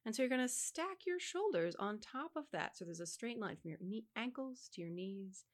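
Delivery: measured, guiding instructor cadence; rehearsal alignment recitation. Shown as a demonstration. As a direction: talk singers step by step into alignment. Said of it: "recitation that I do at the beginning of rehearsals".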